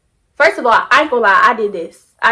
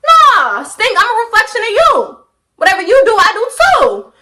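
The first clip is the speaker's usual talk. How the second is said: raised and high, telling him off; defiant sass; 4 semitones higher than usual. Retold or imitated. Talking back to her cheating boyfriend in her head, high and sassy. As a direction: throw it back at him with attitude.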